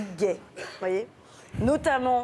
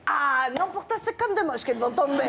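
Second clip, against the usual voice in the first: Christina's voice; 3 semitones higher than usual. Pretend.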